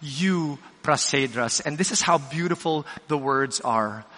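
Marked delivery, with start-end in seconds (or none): 0.0-1.6 Euprasedras repeated slowly: yu-pra-SAY-dras, falling at the end; slow teaching pronunciation. Shown as a demonstration. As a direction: model Euprasedras slowly again. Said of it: "One more time".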